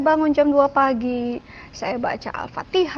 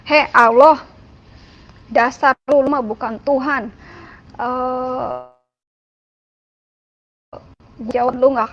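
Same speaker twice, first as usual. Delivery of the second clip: coarse, louder outburst at God; rough, defiant shouting with contempt; harsh and loud; 4 dB louder than usual. Retold or imitated. Renouncing faith at dawn in a loud, harsh outburst. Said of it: "ngomongnya saya tuh ngomong agak keras, ngomong agak kasar".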